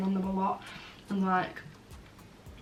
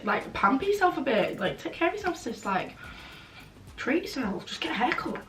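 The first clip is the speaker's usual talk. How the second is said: sassy advice; 5 semitones higher than usual. Real, not acted. Sassy advice to scruffy guys.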